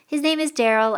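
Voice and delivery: high, loud, hurried cover story; said quickly. A narrator's reading. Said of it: "I said quickly".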